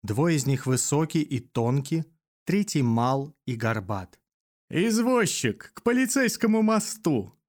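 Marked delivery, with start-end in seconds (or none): 4.7-7.4 high, rattling hunchback's shout. A narrator's reading. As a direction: rattle it out like a frail old man. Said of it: "кричит дребезжащим голосом горбач".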